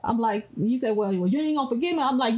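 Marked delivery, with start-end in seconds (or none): 1.0-2.0 quick, mildly mocking copy of husband; imitating husband's tone. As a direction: rattle it off as a careless challenge. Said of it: "but the way he would say it".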